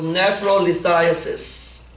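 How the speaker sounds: slow term. Shown as a demonstration. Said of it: "What's another name for kidney stone?".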